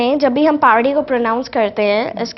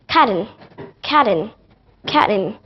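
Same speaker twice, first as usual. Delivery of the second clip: British COTTON with the T and last vowel sounded; British accent; 2 semitones lower than usual. Shown as a demonstration. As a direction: say COTTON the British way, both syllables intact. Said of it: "the British accent".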